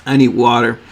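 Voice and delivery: normal talking voice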